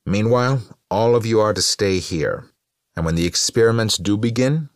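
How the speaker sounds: high, loud public-address delivery; Morrison addressing guests. A narrator's reading. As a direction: project it to a hall, pitched well up.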